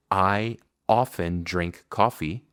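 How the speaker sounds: I often drink coffee slowly; slow model. Shown as a demonstration. Teacher models the example sentence slowly. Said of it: "Por ejemplo".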